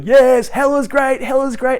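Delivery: high, drawn-out false enthusiasm; hammed-up gleeful parody; mock cheering. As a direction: chant it like deluded fans in hell. Meme people cheering in hell.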